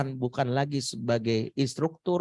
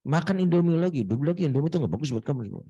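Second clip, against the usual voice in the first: nagging mom; faster than usual. Retold or imitated. Voicing nagging mother.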